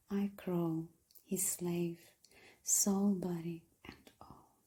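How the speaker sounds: hushed, breathy poem reading with measured pauses; poetry recitation. Acted.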